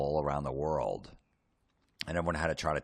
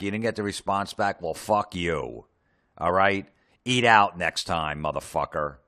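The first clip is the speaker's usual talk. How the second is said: mock-angry rant; 4 dB louder than usual.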